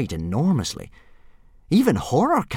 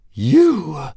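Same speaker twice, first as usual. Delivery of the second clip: menacing hiss; 7 semitones higher, 5 dB louder than usual. Acted. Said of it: "hissed Fireworm".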